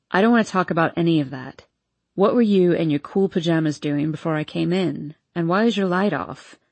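a hint of a drunk young man; town drunk. Hardin's voice.

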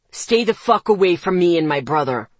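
loud furious yell. Acted. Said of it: "he yelled".

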